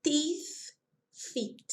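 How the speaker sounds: teeth and feet with a long ee vowel; teacher models the ee vowel in teeth and feet; long I sound. Shown as a demonstration. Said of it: "a pronúncia é de I".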